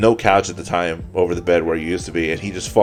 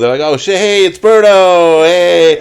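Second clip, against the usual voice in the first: higher, louder startled greeting; drunk surprised cheer; 9 semitones higher, 8 dB louder, slower than usual. Retold or imitated. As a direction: stumble back surprised, then cheer. Drunk friends startled at door.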